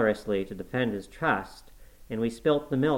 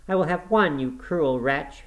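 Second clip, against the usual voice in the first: high, loud, slowing outburst; a restrained scream of outrage; 6 semitones higher, 4 dB louder than usual. A narrator's reading. Girl snatches letters from the fire, screaming. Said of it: "she screamed".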